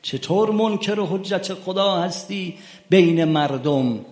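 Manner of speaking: loud, high, slowing rebuke with منکر hit hard; indignant challenge. Retold or imitated. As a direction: hurl the accusation at him. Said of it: "خواستم بگم". (سرزنش پرشور و بلند)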